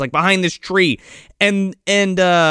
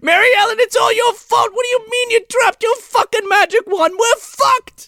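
high, wailing mock shout; hysterical, hammed-up blaming of the fairy; pissed-off Santa. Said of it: "And Santa is fucking pissed".

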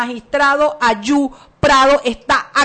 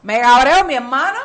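put-on Cuban accent; 4 dB louder than usual. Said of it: "me sé un cubanazo".

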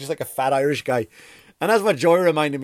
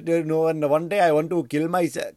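lightly put-on Indian accent; 2 semitones higher than usual. Comedian imitating a Friends fan in India, Indian accent. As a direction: mimic someone with an Indian accent. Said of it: "Can I do an Indian accent?".

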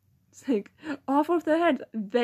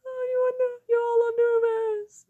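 mock teacher quote; 10 semitones higher than usual. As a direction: tease like the teacher. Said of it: "It's like".

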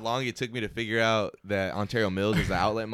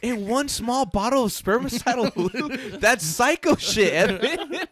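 laughing; 10 semitones higher, slower than usual. Real, not acted. Laughing mock outrage.

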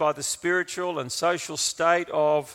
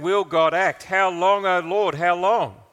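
loud, raised plea to God; heartfelt cry; 4 semitones higher, 8 dB louder than usual. Acted. Preacher voicing sufferers sick of praying, heartfelt loud cry. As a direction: cry it out urgently, higher and louder. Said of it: "it's the cry of a heart".

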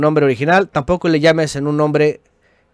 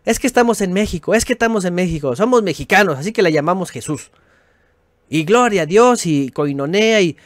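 mocking quote; 4 semitones higher than usual. Mocking objectors to the name.

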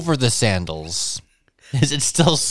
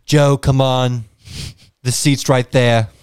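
a lightly put-on British accent. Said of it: "That sound British".

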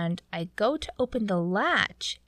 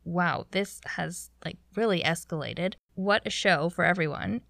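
lower-pitched, unimpressed aside; deadpan dismay; 3 semitones lower than usual. Retold or imitated. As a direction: react dryly to a scene getting out of hand. Dry reaction to captain's escalation.

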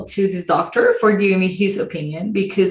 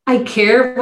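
higher, put-on caring tone; mock a doctor's show of concern; condescending show of caring; imitated "I care" voice; 4 semitones higher than usual. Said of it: "he had this very".

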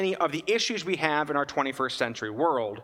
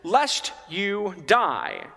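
Eve's words, emphasized; 4 semitones higher than usual. Retold or imitated. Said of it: "if you listen to Eve".

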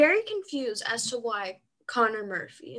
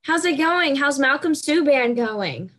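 sarcastic taunt; 4 semitones higher, 5 dB louder than usual. Acted. Mocking rival team.

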